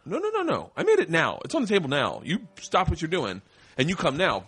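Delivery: high, emphatic no no no then firm orders; mock-stern husband insisting dinner be eaten now; insistent demand. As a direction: lay down the law about dinner being hot. Insisting wife eat food now.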